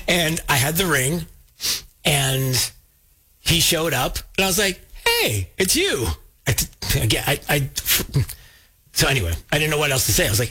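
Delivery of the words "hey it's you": high, drawn-out hello; acting out an awkward fan greeting; retold starstruck greeting. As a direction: stretch it out slowly, as if meeting a star. Acts out meeting TV star.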